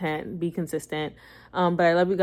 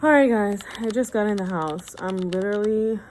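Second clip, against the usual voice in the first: out of breath; 3 semitones higher, 3 dB louder than usual. Real, not acted. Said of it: "out of breath".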